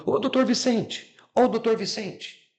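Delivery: calling out. Retold or imitated. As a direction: draw out his name to get his attention. Mother calling pharmacist. (chamando o doutor Vicente, arrastado)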